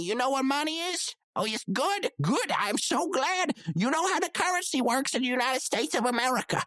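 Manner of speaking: patronizing lilt with swooping emphasis; condescending explanation. Acted. Band member explains tickets to someone he called stupid, condescending. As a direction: spell it out as if to a simpleton.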